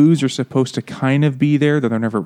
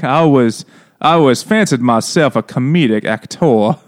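mock actress; 4 dB louder than usual. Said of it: "And it's like".

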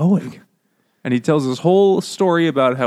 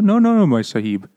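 mock Indian accent; 3 semitones higher than usual. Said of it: "Stephen Fry does the voice".

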